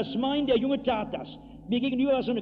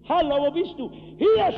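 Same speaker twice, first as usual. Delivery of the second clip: raised, high calling voice, slow on "Hier"; Jesus calling; 8 semitones higher, 7 dB louder than usual. Acted. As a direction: call out to the lost. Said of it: "die Stimme Jesu".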